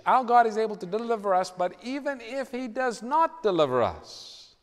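firm, fearless refusal in a preacher's retelling; defiant declaration. Retold or imitated. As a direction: declare it boldly, pitch climbing high. Three Hebrews defying the king, quoted.

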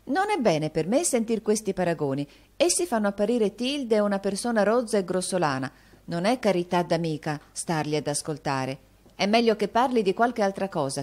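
grand mistress correcting her maid; majestic air. A narrator's reading. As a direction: rebuke her with queenly dignity. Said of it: "con aria maestosa".

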